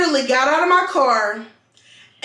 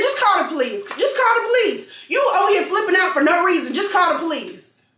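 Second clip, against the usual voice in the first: retold yell; 5 semitones higher, faster than usual. Telling her to call police.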